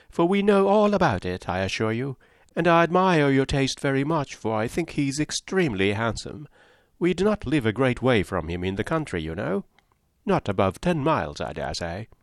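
high, breathless society gossip; chattering Mrs Palmer. Acted. Mrs Palmer prattling to Eleanor and Marianne, high and chirpy. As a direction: prattle on brightly without pausing.

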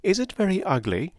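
high, breathless society gossip; chattering Mrs Palmer. Acted. Mrs Palmer prattling to Eleanor and Marianne, high and chirpy. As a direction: prattle on brightly without pausing.

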